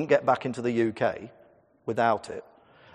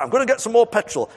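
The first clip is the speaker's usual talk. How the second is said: impatient dad; 8 semitones higher, 6 dB louder than usual. Retold or imitated. Dad voiced in a story.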